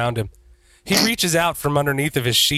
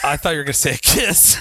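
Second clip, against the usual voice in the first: laughing shout; faster than usual. Real, not acted. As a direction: blurt it out through laughter. Laughing interruption.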